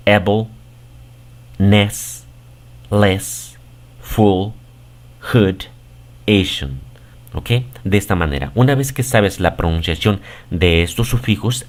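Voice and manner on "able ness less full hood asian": each suffix said alone in English; English suffixes. Shown as a demonstration. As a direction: read the suffixes one by one in English. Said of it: "De la siguiente manera". (sufijos pronunciados en inglés)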